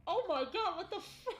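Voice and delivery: startled. Real, not acted. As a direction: blurt it out, cut off mid-word. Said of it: "That shit jump scared me".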